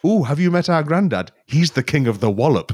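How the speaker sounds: lightly voiced children; kids' voices. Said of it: "two children saying".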